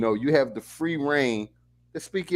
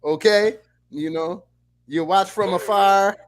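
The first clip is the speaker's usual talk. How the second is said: put-on Jamaican accent; 4 semitones higher, 4 dB louder than usual. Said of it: "I wanna hear more Jamaican Carl".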